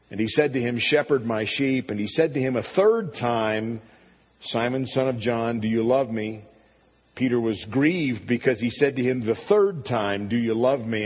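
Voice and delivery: solemn Bible reading voice; scripture reading. Acted. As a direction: read the gospel aloud with weight. Preacher reads the scripture passage.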